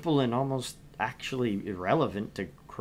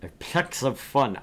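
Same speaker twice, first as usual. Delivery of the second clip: savoring the phrase; 3 semitones higher, slower than usual. Pretend. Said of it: "I just like saying that".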